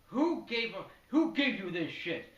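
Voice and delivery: mock-angry interrogation; angry demand. Knife at throat, demanding answer.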